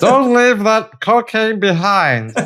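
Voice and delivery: very high, squeaky alien creature voice. Joking about what kids' content teaches, the speaker does a Stitch voice. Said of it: "You sound like someone else completely".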